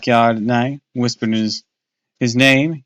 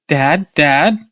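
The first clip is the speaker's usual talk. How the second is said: stammering; 5 semitones higher, 5 dB louder than usual. A narrator's reading. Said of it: "I finally managed to stammer".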